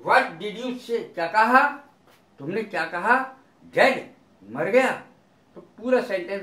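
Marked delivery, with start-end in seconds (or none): 0.1-4.9 short, incredulous questions with rising ends; mildly astonished. Shown as a demonstration. Checking what was said about a death, mildly astonished. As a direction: echo it back in mild disbelief. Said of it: "इस प्रकार से थोड़ा सा आश्चर्यजनक के लिए".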